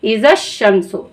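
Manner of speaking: इज़ा शमसु read slowly, इज़ा stressed, each sound drawn out; slow Quranic reading. Shown as a demonstration. Teacher slowly recites इज़ा शमसु for her students. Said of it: "ठीक है, इस तरीके से".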